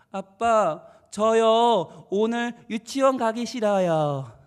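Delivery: put-on little child. Five-year-old to dad about kindergarten, reluctant. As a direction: imitate a child dragging out a complaint to dad. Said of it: "아이가 그러는 거야".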